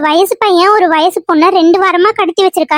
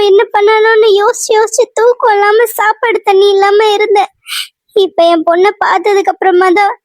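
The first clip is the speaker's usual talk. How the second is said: crying with relief; tearful relief. Acted. Mother reunited with her missing daughter, tearful relief. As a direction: pour out the suffering through tears. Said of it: "ஏன் இன்னும் அழுதுட்டு இருக்கீங்க".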